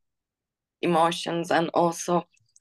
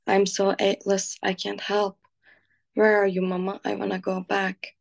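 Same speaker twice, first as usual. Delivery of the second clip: poem reading. Acted. Reading her own poem about her mother aloud, tender and pained. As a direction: read it like a painful letter to your mother.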